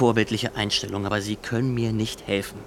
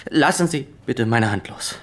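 firm, louder repeat; insisting now, louder; louder insistence; 2 semitones higher, 6 dB louder than usual. Acted. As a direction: raise the voice to make the point.

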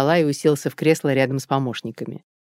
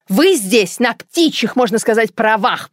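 higher, louder agitated jab; worked-up; 7 semitones higher, 5 dB louder than usual. Acted. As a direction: keep needling, wound up. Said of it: "продолжала взвинченная".

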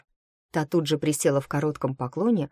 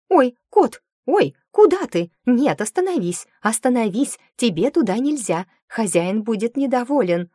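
high, loud, flustered shouts; alarmed shouting; 7 semitones higher, 6 dB louder than usual. A narrator's reading. Maid shouts after the cat in panic. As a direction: chase the cat with panicked cries.

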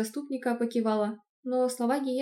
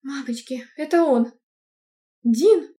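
higher, much louder frightened squeal; panicked squeal; 4 semitones higher, 10 dB louder, slower than usual. Acted. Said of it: "пискнула". (испуганный визг)

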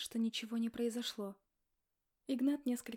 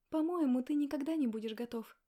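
cutting retort, louder and higher; cold retort; 4 semitones higher, 6 dB louder than usual. Acted. Wife dismissing husband's excuse, cold and cutting. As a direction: slice the words off coldly. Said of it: "отрезала холодно".

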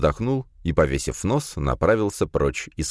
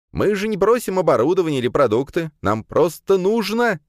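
put-on eager young student; 5 dB louder than usual. A narrator's reading. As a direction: press the rector, stretching the words. Kirill voiced high.

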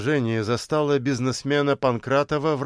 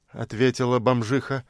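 ordinary delivery, nothing marked

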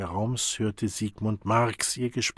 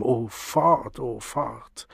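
despairing groan; 2 semitones higher, much slower than usual. Acted. Sigmund despairing.

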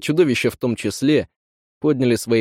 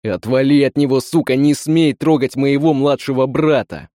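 angry; 3 semitones higher, 4 dB louder than usual. Acted. Brother fights monster off.

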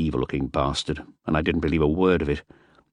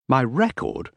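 appalled; 6 semitones higher, slower than usual. A narrator's reading. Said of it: "I was appalled".

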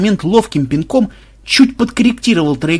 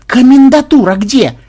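high, loud, drawn-out question; slow, exasperated holler; exasperated shouting; 9 semitones higher, 8 dB louder than usual. A narrator's reading. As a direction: spell it out loudly for someone dense. Repeats question to dense granny.

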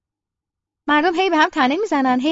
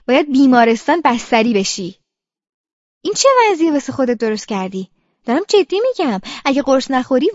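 stern telling-off, a touch louder; scolding doctor; 4 dB louder than usual. Acted. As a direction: lay down the law to a stubborn patient. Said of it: "شما چرا سر من د". (با تشر و سرزنش)

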